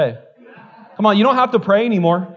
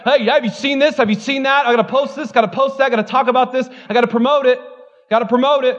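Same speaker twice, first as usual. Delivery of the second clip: higher-pitched, mildly frantic rattle of demands; urgent overeager would-be reporter, lightly acted; frantic urgency; 4 semitones higher than usual. Preacher mimicking people pressured to post everything, mildly frantic. Acting out frantic social media posters.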